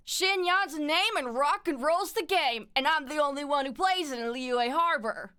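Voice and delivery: high, loud rock-and-roll showgirl; punchy, high-energy game character voice; Xinyan. Acted. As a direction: belt it out like a rocker hyping a crowd. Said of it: "Oh, I could do Xinyan".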